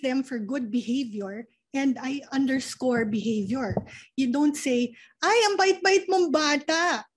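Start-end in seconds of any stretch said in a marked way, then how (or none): 5.2-7.1 put-on high, cooing praise to a child; gushing praise. Parent praising a child for being good, gushing. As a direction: gush over the child in a raised pitch.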